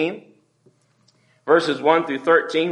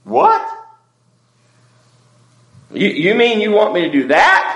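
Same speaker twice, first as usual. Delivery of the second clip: shocked disbelief; 3 semitones higher, 7 dB louder than usual. Pretend. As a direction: balk loudly at being asked. Shocked at God's request.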